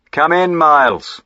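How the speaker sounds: light up at a friend's voice; delighted welcome. Acted. Master welcoming his old friend, loud and delighted.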